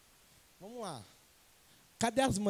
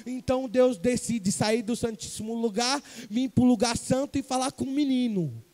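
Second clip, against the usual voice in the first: loud, emphatic preaching; 7 dB louder than usual. Acted. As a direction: press the point home to the congregation. (pregação em voz alta)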